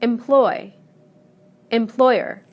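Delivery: em-PLOY, em-PLOY-er; loud second syllable in Employ and employer; same stress. Shown as a demonstration. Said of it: "the stress remains the same".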